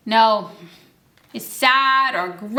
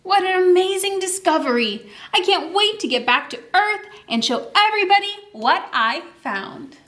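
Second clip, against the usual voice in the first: a touch higher, wondering; amazed astronaut; 5 semitones higher than usual. Acted. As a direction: marvel at the find. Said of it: "He says".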